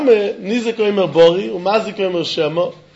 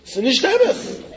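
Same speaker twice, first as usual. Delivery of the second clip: mock yell; 10 semitones higher, slower than usual. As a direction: imitate someone crying out in protest. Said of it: "the other guy will yell and say".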